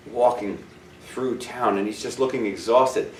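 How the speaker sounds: hushed story-time telling; story narration. Acted. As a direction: paint the picture gently for listeners. Soft storytelling of weary traveler.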